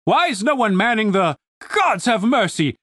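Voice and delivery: booming demand breaking into appalled recognition; booming outrage. A narrator's reading. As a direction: call down in scandalised authority. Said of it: "The booming voice sounded familiar".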